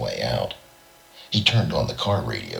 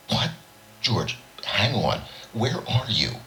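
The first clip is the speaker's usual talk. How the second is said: near-hysterical, higher pitched; 7 semitones higher than usual. A narrator's reading. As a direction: panic rising down the phone line. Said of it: "Robinson sounded almost hysterical".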